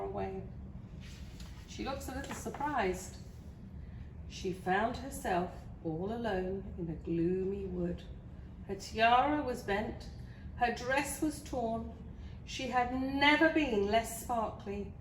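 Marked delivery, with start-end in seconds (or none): 4.3-14.9 storybook narration of a sorry plight; story reading. Acted. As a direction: tell it to small children, phrase by phrase. Reads a picture book to children.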